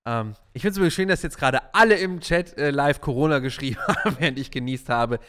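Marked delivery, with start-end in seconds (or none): 2.7-5.2 laughing. Real, not acted. Chat jokes about his sneeze.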